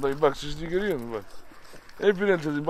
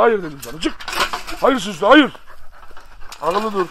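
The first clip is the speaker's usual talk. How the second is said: horoza sertçe bağır, giderek yükselen; uyarırcasına yüksek ve tiz haykır; gerçek bağırış; 3 semitones higher, 8 dB louder than usual. Real, not acted. Horozu yüksek sesle kovuyor. (horoza kızgın bağırış)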